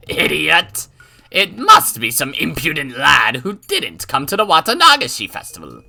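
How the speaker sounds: loud, high, laughing scorn; laughing old woman. Acted. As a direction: scoff through a cackle. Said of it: "Oreo kept laughing".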